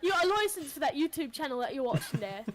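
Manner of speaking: quick mock British questioning; officious Brit, played for laughs; British accent. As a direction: rattle it off in put-on British. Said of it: "British people be like".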